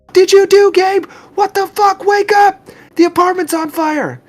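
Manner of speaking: high, loud panicked scream; frantic high-pitched yelling. Acted. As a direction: scream to wake them in a fire.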